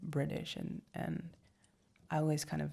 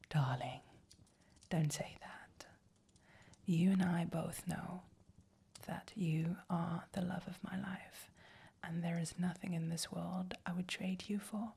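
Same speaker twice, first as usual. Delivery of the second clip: tender whisper. Acted. Boyfriend reassuring his darling, tender whisper. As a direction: whisper it close, lovingly.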